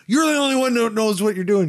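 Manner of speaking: high-pitched pushy plea; high insistent whine. Retold or imitated. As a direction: push it up high and whiny. Retold argument over fuse box.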